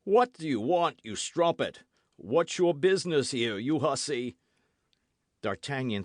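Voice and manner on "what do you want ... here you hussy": angry servant. Acted. Servant scolding an intruder.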